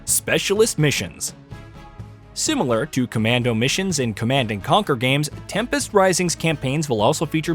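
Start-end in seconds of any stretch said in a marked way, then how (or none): 0.1-1.3 top ten countdown. Acted. List item heading.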